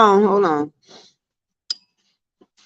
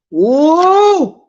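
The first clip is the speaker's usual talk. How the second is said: whoop. Real, not acted. Exclaiming after a mock rant.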